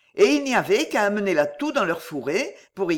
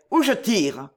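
shouted threat. A narrator's reading. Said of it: "cria Dagobert".

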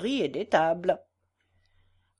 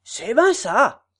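slow, louder, gruff-sounding country yes; Rousseau agreeing; 8 dB louder, slower than usual. A narrator's reading. Rousseau agreeing with Gatelier, slow and louder. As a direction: drag it out slowly. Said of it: "répondit Rousseau".

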